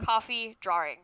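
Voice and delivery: coffee and drawing in a Massachusetts accent; Massachusetts demo, drawing as "draw-ring". Shown as a demonstration. Listing coffee and drawing as samples, Massachusetts accent. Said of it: "that's my Massachusetts accent".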